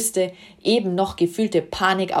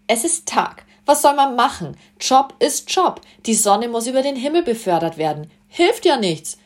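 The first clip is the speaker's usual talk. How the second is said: higher, louder, breezy shrug; shrugging nonchalance; 6 semitones higher, 3 dB louder than usual. A narrator's reading. Sun god shrugs off his job to Susi, breezy and high. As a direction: toss it off like it's no big deal. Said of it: "sagte er achselzuckend".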